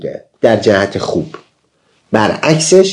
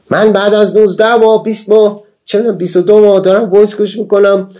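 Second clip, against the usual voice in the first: higher, whiny retold complaint from a fed-up student; mock whining; 8 semitones higher than usual. Student grumbling to his teacher about months of listening, mock whining. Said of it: "خیلی غر زد و خیلی غر زد".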